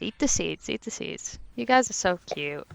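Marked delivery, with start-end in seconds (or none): 0.7-1.4 soft unvoiced whisper. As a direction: breathe it out, barely a sound. Repeated line, second whispered.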